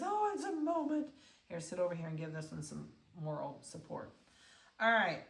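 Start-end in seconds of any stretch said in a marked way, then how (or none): 0.0-1.1 high-pitched puppy voice; playful high pet voice; speaking for puppy. Pretend. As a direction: put words in the puppy's mouth, pitched high. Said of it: "This one says".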